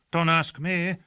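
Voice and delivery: loud, high protest; the servant loudly refusing to explain; cried. Acted. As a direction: cry it out, wanting no part of it. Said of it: "cried Gossagor".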